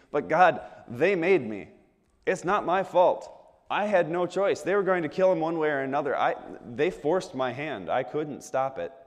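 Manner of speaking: mildly hammed-up excuse-making; defensive pleading. Pilate excusing himself to God, defensive pleading. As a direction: protest your innocence, starting high.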